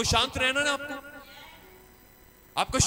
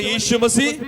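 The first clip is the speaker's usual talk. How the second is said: shout. Shown as a demonstration. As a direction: call out Yeshu Masih with full force. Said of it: "जोर से बोले".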